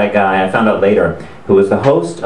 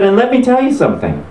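higher, mock-emotional host; hammed-up choked-up earnestness; imitated misting up; 10 semitones higher than usual. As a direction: play at being close to tears. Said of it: "I hear he's misting up".

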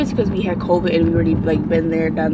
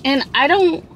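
emotional; 7 semitones higher than usual. Real, not acted. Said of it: "I'm so emotional right now".

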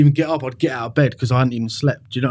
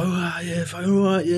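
lightly voiced cocky bravado, higher; showing off; 5 semitones higher, 4 dB quieter than usual. Acting big in front of an audience, mock cocky. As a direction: put on a light mask of swagger. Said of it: "I'd give it the big one".

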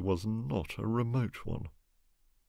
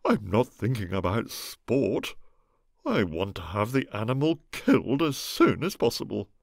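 fuming; 3 semitones higher, 4 dB louder than usual. Acted. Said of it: "fumed Egbert".

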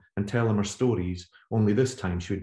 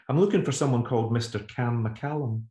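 polite phone voice; 4 semitones higher than usual. Retold or imitated. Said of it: "It often made her overly polite".

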